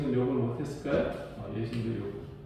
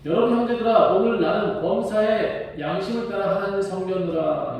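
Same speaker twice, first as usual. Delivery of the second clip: raised, earnest appeal to the council; Paul addressing council; 4 semitones higher than usual. Retold or imitated. Paul before the council, declaring his clear conscience solemnly. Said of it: "이렇게 말해요".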